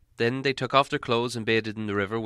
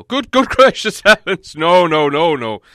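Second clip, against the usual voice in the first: much higher and louder wizard's outburst with a laugh; exasperated exclamation; 7 semitones higher, 12 dB louder, slower than usual. Acted. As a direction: burst out, half laughing, half appalled.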